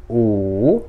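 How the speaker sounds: "u" falls, then rises, nearly two beats; third tone. Shown as a demonstration. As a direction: let "u" sink, then climb. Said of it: "Por causa da descida e subida".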